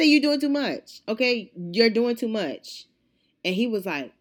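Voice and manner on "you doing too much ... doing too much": high scolding with a laugh; amused, emphatic retold scolding; retold telling-off. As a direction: laugh into the rebuke, then stretch it. Retold rebuke, begun through laughter.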